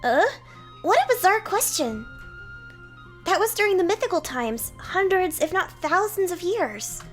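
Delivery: high, loud incredulous reply; baffled knight. Acted. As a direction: sound stunned by the question.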